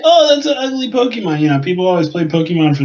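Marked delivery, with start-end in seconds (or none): 0.0-1.4 high-pitched mimicking critic; imitated sneering complaint; mocking disdain. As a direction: put on a high voice for the haters. Mimics people who disliked the Pokemon.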